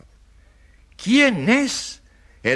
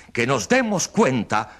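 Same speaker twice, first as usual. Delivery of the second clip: building oratory; 10 semitones higher than usual. Acted. Lawyer accusing the journalist before the jury, rising shout. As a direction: build the outrage toward the question. Speech builds to conspiracy charge.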